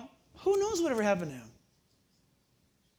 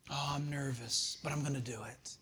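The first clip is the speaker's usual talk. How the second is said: mock nervous whisper; 6 semitones lower, 10 dB quieter than usual. Imitating a nervous evangelist.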